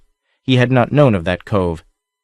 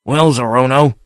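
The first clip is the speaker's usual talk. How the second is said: taunting; 4 semitones higher, 3 dB louder than usual. A narrator's reading. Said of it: "he taunted".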